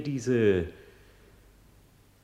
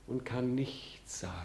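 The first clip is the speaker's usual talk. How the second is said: much softer, whispered admission; 13 dB quieter than usual. Acted. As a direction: sink into a defeated whisper. Hamlet's self-reproach monologue. (resigniert geflüstert)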